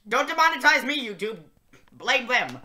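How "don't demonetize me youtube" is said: high fast plea. Shown as a demonstration. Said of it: "That's what the lyric said".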